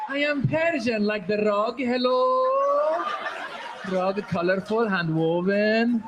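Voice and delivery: put-on drawn-out, friendly Iranian accent; smiling Persian. Comedian plays harmless Iranian likened to a rug, smiling drawl. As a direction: stretch it sweetly, like selling a rug. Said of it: "we smile".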